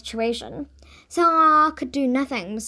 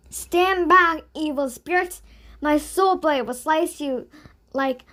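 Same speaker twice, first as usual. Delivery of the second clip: heroic declaration; 4 semitones higher, 4 dB louder than usual. Acted. Boy's heroic challenge.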